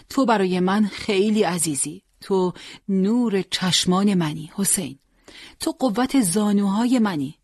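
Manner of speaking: high, near-breaking mother's plea; tearful pleading mother. Acted. Mother begging son Hossein not to go to war, high pleading.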